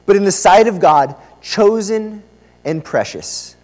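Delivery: measured, emphatic reading of scripture. Acted. Preacher opens by reading the passage to the church, scripture reading. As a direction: proclaim it phrase by phrase, slowly.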